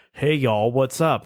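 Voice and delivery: casual imitated Southern American greeting; lightly put-on Southern American accent. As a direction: toss it off in a mock American twang. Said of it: "British people can go like".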